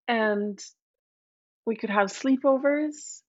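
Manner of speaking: lightly voiced hopeful frog; pleading frog. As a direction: plead gently for a friend.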